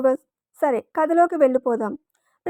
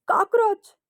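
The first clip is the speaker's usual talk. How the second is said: shrieking; 7 semitones higher than usual. A narrator's reading. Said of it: "అంది ఇంకా అరుస్తూ".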